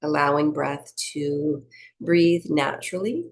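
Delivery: unhurried meditation-teacher delivery; guided breathing meditation. Acted. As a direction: lead them gently through each breath, leaving space.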